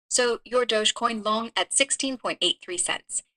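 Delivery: light put-on Chinese accent; a hint of Chinese-accented English. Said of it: "stick to just the Chinese accent".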